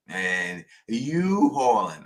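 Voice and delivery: slow New York drawl on "hauling", hauling said like hawlin; a Queens native drawing out "you hauling" in a New York accent. Retold or imitated. Host mimicking the caller's take on his New York accent, slow. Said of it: "making fun of the Don's New York City accent".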